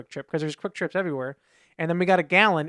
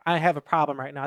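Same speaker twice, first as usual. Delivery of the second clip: laughing; 3 semitones lower than usual. Retold or imitated. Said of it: "I think I said it out loud".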